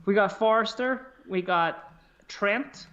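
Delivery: put-on retry the Jamaican accent, drawn out. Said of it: "a Jamaican accent".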